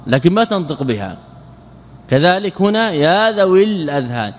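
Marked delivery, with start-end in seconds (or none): 2.9-4.3 ذوي runs straight into الأذهان with short i; written ya left silent. Shown as a demonstration. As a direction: say ذوي الأذهان linked as "dhawil-adhhan". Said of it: "تكتب الياء ولا تنطق بها".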